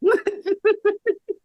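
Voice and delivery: high burst of real laughter; laughing. Real, not acted. Cohost finally getting the doctor joke, high laughter. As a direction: dissolve into giggles.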